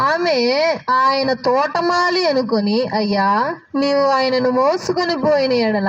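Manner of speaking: slow, measured Bible reading; scripture reading. Real, not acted. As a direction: read the verse out with drawn-out phrase endings. Reads scripture aloud to congregation. (నెమ్మదిగా సాగదీస్తూ వాక్య పఠనం)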